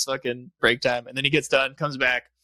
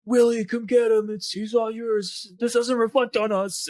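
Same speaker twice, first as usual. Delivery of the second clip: sheriff voice; 9 semitones higher than usual. Retold or imitated. Sheriff calling Willy.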